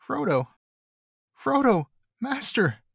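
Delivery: high, desperate calling of a name; half sobbing cry. Acted. Sam calling for his lost master, half sobbing. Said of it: "he cried, half sobbing".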